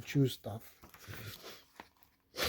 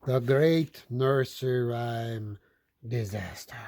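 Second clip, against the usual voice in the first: dramatic title; 4 semitones lower than usual. Shown as a demonstration. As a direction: announce it like a doom. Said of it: "Dun, dun, dun".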